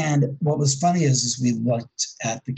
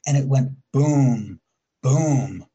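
slow mock booming noise; imitated gong boom; slower than usual. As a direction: boom it out like a hollow steel pipe. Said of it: "something like a gong almost".

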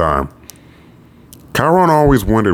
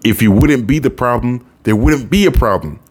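scolding mother; 6 semitones higher than usual. Acted.

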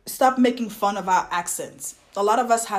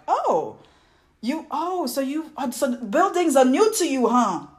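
lightly higher-voiced clueless stranger; mock naive questioner; 6 semitones higher than usual. Stranger reacting to an African newcomer, mock-naive. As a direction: imitate a hesitant, condescending questioner.

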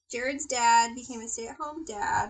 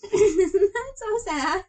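sad; 8 semitones higher, 8 dB louder, much slower than usual. Real, not acted. Sad story of isolated child.

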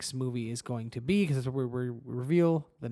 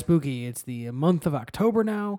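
spooky voice; 2 semitones higher, 6 dB louder than usual. Acted. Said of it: "It's spooky".

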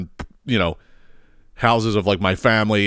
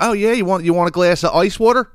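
mock Philly host; 7 semitones higher than usual. Imitating host offering ice water.

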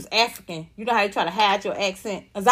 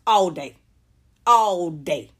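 ordinary delivery

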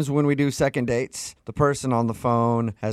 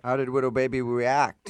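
laughing. Real, not acted.

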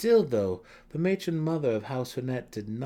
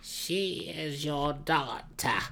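sharp retort; 7 semitones higher, much slower than usual. A narrator's reading. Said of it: "shot back".

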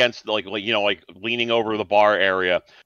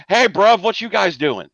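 a lightly voiced London tough, cheery and loud; cockney vampire; 10 semitones higher, 4 dB louder than usual. Game master voicing a burly vampire greeting the players, hint of a London bloke. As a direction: clap the arms round them and greet them like mates.

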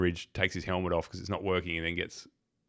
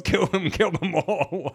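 high, drawn-out imitation battle cry; mock yell; 9 semitones higher, 3 dB louder, much slower than usual. Retelling the soldier's charge at the bugs, slow high mock yell. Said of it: "and just yells".

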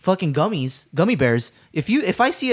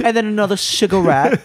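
bad French accent; 5 semitones higher than usual. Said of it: "That was a bad accent".

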